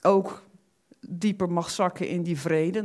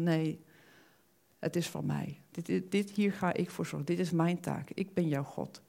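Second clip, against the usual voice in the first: softer, hushed voice of God; whispering God; 8 dB quieter than usual. Retold or imitated. God whispering to the worried believer, softer and hushed. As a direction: hush it, like a voice in the heart. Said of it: "fluistert met zijn stem".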